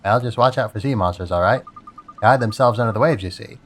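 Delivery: lightly voiced crab giving a warning. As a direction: warn them like a wary crab. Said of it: "this is my crab voice".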